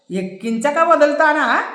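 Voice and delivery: a touch of keen enthusiasm; mildly eager boast from the inspector. Acted. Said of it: "అన్నాడు శ్రీరామ్ ఉత్సాహంగా". (శ్రీరామ్ ఉత్సాహంగా, కొద్దిగా)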